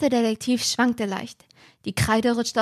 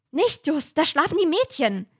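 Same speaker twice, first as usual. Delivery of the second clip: Peter calls out, higher; urgent whispered-shout warning, pitched up; 5 semitones higher than usual. Acted. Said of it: "rief Peter". (laut gerufene Warnung, höher)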